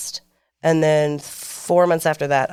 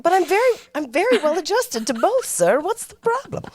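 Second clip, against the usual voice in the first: laughing mock confidence; 12 semitones higher than usual. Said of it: "I'm like".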